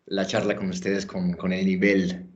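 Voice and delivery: Spanish with a clear American accent; English speaker speaking careful Spanish. Real, not acted. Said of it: "pidiendo perdón por mi español".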